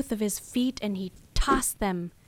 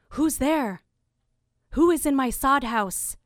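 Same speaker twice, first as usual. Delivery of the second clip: higher-pitched demand to unseen intruders; hunter calling out; 4 semitones higher, 4 dB louder than usual. Acted. Hunter walking towards the two voices, calling out. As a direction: challenge whoever is hiding in the house.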